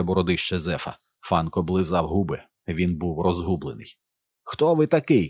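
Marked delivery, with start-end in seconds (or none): 4.4-5.3 high, raised demand; sharply pitched-up challenge; shouted question. A narrator's reading. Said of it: "крикнув Максим".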